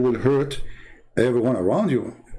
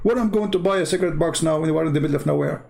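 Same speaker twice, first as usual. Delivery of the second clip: imitating the upset friend, higher and fast; half-mock outrage, rattled off quickly; retold friend's fast, higher complaint; 4 semitones higher, faster than usual. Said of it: "He got so upset".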